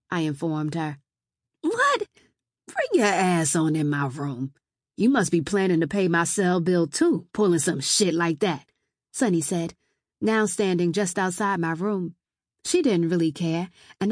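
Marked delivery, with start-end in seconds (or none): 1.6-8.7 scolding cousin. Acted.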